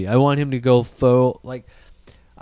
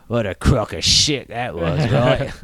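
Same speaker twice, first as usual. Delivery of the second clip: gruff Boba Fett; 3 semitones lower, slower than usual. Retold or imitated. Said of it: "He's like".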